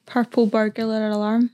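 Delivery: "Purple burglar alarm" said slowly and carefully; tongue-twister attempt. Shown as a demonstration. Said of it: "Can you try and say purple burglar alarm?".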